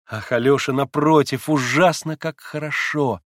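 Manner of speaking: put-on eager young woman pressing her point; young Lise. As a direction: play the agitated young girl Lise. Lise delighted.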